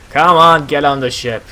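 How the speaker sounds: impatient sailor order. Acted. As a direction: order the passengers aboard. Sailor ordering passengers aboard.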